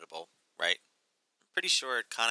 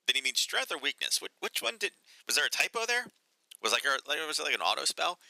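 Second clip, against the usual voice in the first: baffled reader; 6 semitones higher than usual. Retold or imitated. Mocking a confusing headline.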